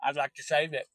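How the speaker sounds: folksy put-on hillbilly host voice; hillbilly character. Hillbilly Earl greeting stream viewers and rambling, folksy put-on drawl. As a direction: welcome folks like a backwoods tour guide. All right, I'll put them back in.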